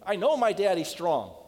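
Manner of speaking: put-on a child bragging about his dad; proud little boy. Boy boasts of his father.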